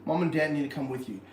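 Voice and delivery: normal talking voice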